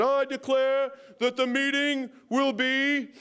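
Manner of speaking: hammed-up upper-class British proclamation; mock British accent. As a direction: proclaim it like a pompous British official, stretching each word. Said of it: "who told you to do the British accent".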